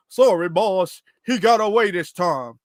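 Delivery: lightly put-on weird cartoon henchman accent; crazy henchman accent. Henchman reporting to the boss, weird mock accent. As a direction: imitate an apologetic henchman in an odd accent. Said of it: "weird accent and everything like that".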